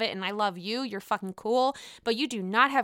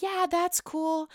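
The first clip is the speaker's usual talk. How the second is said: slow, higher, dripping with sarcasm; mock sarcastic yeah; 6 semitones higher, slower than usual. Jackie doubting the excuse, slow higher sarcastic drawl. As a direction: drag it out like you don't buy it. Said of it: "Jackie's like".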